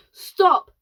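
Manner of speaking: high, loud stop; scream. Acted. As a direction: cut him off with a scream. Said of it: "screamed ground control".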